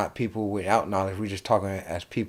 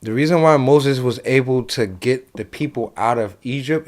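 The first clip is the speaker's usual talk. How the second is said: a touch of the preacher, louder; going church; 2 semitones higher, 6 dB louder than usual. Real, not acted. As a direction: launch into an impromptu Bible lesson, emphatically. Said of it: "I'm about to go church".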